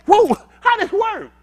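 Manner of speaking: high, loud and slow mock puzzlement; mock overseer. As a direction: play dumb loudly as the overseer. Acted slaver, high and slow.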